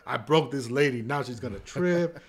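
loud, amused dismay; laughing mock panic. New worker fretting he broke the lady, laughing panic. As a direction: laugh through a retold panic.

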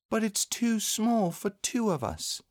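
put-on high, childlike disappointment; mildly sad young boy; sadly. A narrator's reading. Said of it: "said Christopher Robin sadly".

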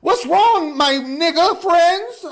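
high, loud, put-on white-kid voice; talking white. Teen back among Black friends after white crowd, mock talking white. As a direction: act innocently baffled in a squeaky-proper voice. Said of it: "Why is this nigga talking like this".

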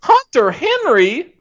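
slow, high Southern drawl; badly faked Southern twang; bad Doctor Phil. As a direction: stretch each name like a hammy TV doctor from the South. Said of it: "bad Doctor Phil impersonation".

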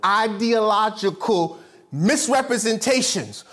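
slow, careful syllables on "Ideological misrepresentations"; each long word drawn out with care. Shown as a demonstration. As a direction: spell out "Ideological misrepresentations" by sound, unhurried. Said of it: "It just gotta go slower".

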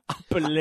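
APPLE read "ap-PLEH"; Spanish spelling pronunciation. Shown as a demonstration. Host mocking their own pronunciation, Apple as "ap-PLEH". Exaggerated Spanish reading of brands.

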